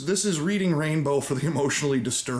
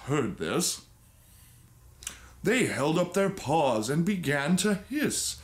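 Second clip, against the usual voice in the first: a hammed-up bedtime story reading; storybook reading. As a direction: read it like a dramatic old storybook. Reads the story aloud.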